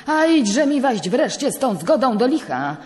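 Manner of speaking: the judge angrily interrupting the priest; angry outburst. Acted. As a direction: stamp your foot and cut him off. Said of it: "przerwał sędzia, tupnąwszy nogą".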